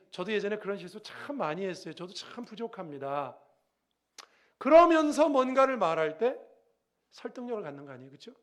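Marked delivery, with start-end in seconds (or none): 0.1-3.4 humble confession. Shown as a demonstration. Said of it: "이렇게 인정하고".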